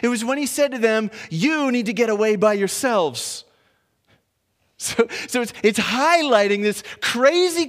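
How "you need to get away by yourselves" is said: "You" punched high and loud; stress on You. Retold or imitated. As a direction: hit "You" hard, then fall away to the end. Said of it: "this emphasis on the you".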